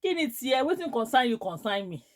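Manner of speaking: loud indignant questioning; retold anger. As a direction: tell someone off loudly, acting out the quarrel. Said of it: "That's how I got angry".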